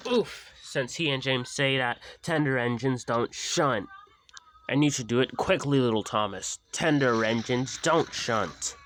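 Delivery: high, loud, quick bossy taunt; lightly voiced haughty big engine. Gordon's words teasing Thomas, lightly mocking.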